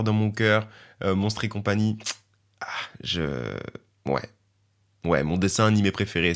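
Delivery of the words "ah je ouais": whisper. Real, not acted. Trails off mid-thought.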